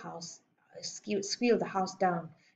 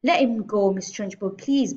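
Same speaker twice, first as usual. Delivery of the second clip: begging; 2 semitones higher, 7 dB louder than usual. A narrator's reading. Miss Honey begs headmistress to release a boy, pleading. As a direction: plead with emphasis on the opening and "please". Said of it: "begged Miss Honey".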